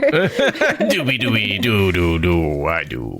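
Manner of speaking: laughing, slow doobie-doo scat. Pretend. Cohost laughing while mimicking accented chatter. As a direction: giggle the nonsense syllables out slowly.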